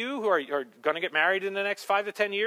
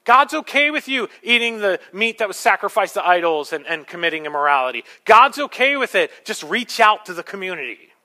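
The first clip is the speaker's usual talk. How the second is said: self-proclaimed prophetess; 2 semitones higher, 7 dB louder than usual. Acted. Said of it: "That's what she said".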